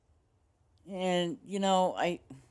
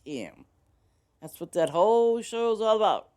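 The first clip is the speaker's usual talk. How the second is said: higher, louder outburst of disbelief; exasperated exclaim; 7 semitones higher, 8 dB louder than usual. Retold or imitated. Streamer to viewers, mocking a TV show, loud incredulous. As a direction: throw it up high, incredulous. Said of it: "I'm like".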